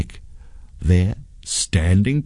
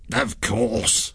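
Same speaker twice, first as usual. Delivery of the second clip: sly ghost voice, softer; wicked ghost, quietly gloating; wicked smile; 3 semitones higher, 5 dB quieter than usual. A narrator's reading. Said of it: "said the ghost with a wicked smile".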